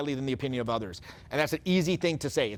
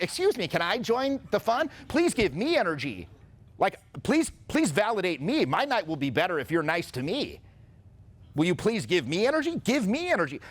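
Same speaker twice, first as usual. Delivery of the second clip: higher, begging for attention; hammed-up plea for validation; needy mock plea; 3 semitones higher than usual. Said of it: "if you went up to someone like".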